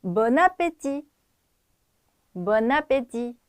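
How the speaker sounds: Bon appétit slowly, n carried into appétit; linked pronunciation. Shown as a demonstration. Teacher repeats for students with liaison, linked pronunciation. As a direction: model "Bon appétit" as one linked phrase. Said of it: "연음해서 다시 한번 발음해 볼게요".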